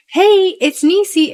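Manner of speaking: high, slow sing-song greeting; cheery greeting. Retold or imitated. Old voicemail greeting played back, high and sing-song. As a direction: chirp it like a voicemail hello. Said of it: "It was like".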